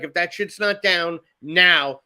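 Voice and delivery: slow, firm mock ultimatum; retold ultimatum. Parent retells daughter's warning to a girl, slow ultimatum. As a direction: imitate a daughter laying down the law, slowly.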